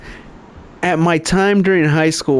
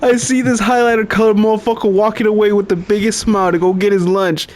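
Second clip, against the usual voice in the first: laughing hard; 5 semitones higher than usual. Real, not acted. Cracking up mid-story.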